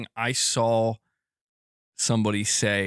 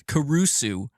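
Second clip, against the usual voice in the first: Caruso in an Italian accent, pitched up a little; playful Italian pronunciation of Caruso; 4 semitones higher, slower than usual. Shown as a demonstration. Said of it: "have to say with the accent".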